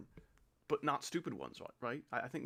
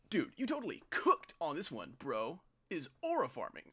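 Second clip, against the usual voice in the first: put-on a light, higher-pitched parody of a teenage bro; mock the slang-talking kid, lightly; 3 semitones higher than usual. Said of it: "anyone who talks like that".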